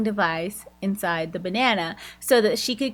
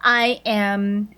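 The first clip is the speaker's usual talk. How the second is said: brisk, fast, businesslike run-through; analytical mode. Retold or imitated. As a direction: rattle off the plan like a cool operative. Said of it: "snapped into, like, this whole".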